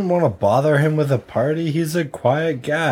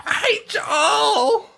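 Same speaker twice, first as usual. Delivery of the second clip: hammed-up party-pooper, half laughing; mock grumpy refusal; 7 semitones higher than usual. Host playing his own refusal to friends, mock grumpy. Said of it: "that's what I talk like when".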